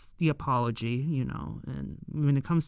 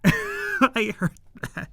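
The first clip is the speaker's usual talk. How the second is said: slow mock indignation; 4 semitones higher, slower than usual. Fan replaying the offended character's comeback, slow and mock-indignant. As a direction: drag it out slowly in an offended put-on voice. Repeats the quote slowly after laughing.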